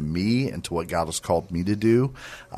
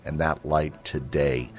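earnest sermon voice, lifting on key words; preaching exhortation. Acted. Radio host urging listeners to walk in freedom, earnest preaching. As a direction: urge the listeners toward hope.

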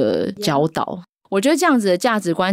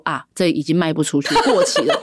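laughing grandma quote. Retold or imitated. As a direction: laugh it out as grandma's blunt line. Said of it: "阿嬷就说".

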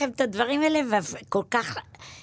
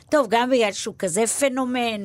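normal talking voice

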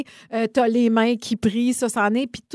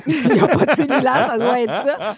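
laughing while agreeing; 5 dB louder than usual. Real, not acted. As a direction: chuckle through it. Laughs at the joke.

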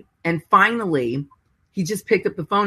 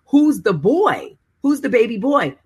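pleading question; 6 semitones higher than usual. Retold or imitated. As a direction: stretch each word out, begging to know. Dodd's urgent question, retold.

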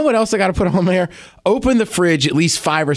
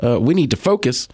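celebrity impression; slower than usual. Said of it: "Do a celebrity impression".

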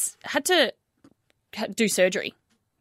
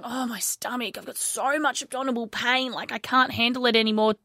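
softly groaned imitation of a patient; mock complaining; 3 dB quieter than usual. Retelling a man complaining to family about stomach pain, mock complaining. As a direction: act out a mild bellyache complaint. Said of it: "was complaining about the pain".

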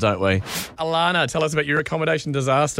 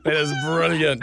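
slow, still laughing; laugh-crying through it. Real, not acted. Host recovering from big laugh.

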